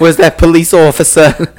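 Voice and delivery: put-on New York accent; lightly mocked New York accent. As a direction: call out in a rough attempt at New York accent. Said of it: "more of a New York accent".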